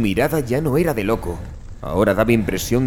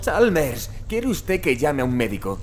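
alarmed urging; 7 semitones higher than usual. Acted.

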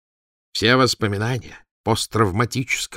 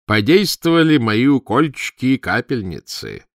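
beaming; 5 semitones higher, 5 dB louder than usual. A narrator's reading. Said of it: "весь лучась".

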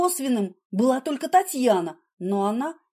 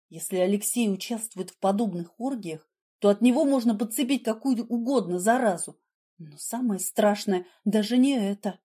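usual speaking voice

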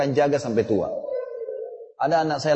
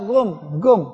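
put-on toddler's salam; 5 semitones higher, 4 dB louder than usual. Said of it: "setiap ketemu orang".

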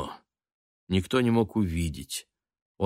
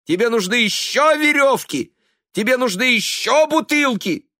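отчаянный высокий громкий крик; кричи на мать из последних сил; 6 dB louder than usual. A narrator's reading. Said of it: "Его голос поднялся до крика". (сын кричит на мать, громко и надрывно)

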